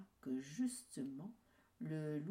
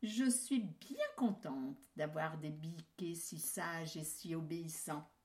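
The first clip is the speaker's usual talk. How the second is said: tender mother. Acted. Mother praises kids.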